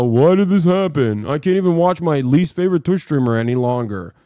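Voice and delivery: a hint of a put-upon viewer whining at his screen; mock distressed viewer. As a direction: imitate a stranded viewer lamenting, half-mocking. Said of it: "And you go".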